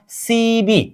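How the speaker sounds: सी बी drawn out as two open syllables; joined syllables. Shown as a demonstration. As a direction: say सी बी with a b, not p. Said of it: "अब इन दोनों को जोड़ दीजिए".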